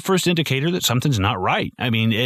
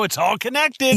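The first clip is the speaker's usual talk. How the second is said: higher, hammed-up knowing tone; lightly mocking conspiracy-theorist voice; 12 semitones higher than usual. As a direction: play the crackpot who sees links everywhere.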